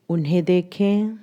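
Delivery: measured guiding voice, long pauses between phrases; guided meditation. Acted. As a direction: lead them gently through recalling the day. (ठहर-ठहर कर ध्यान कराती आवाज़)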